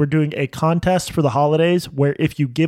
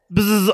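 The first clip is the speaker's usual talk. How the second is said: obnoxious buzzer noise; 5 semitones higher than usual. Shown as a demonstration. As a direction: buzz in like a grating quiz buzzer. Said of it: "I can make mine more obnoxious".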